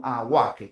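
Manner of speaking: low-pitched "Aguaje", the u pronounced; sounded U. Shown as a demonstration. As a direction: sound out "Aguaje" with a clear "gua". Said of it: "la U se está pronunciando".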